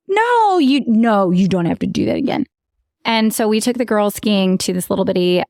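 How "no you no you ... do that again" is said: a lighter, quicker coddling-mom voice; soothing mom voice. Retold or imitated. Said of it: "I am so that mom".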